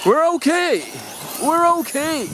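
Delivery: high, laughing reassurance. Real, not acted. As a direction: giggle out the words. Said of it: "I'm laughing at my own silliness".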